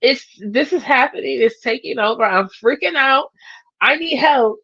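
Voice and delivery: high, loud mock panic, hammed up; mock freak-out. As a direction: play it as a hammed-up emotional meltdown. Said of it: "it goes like this".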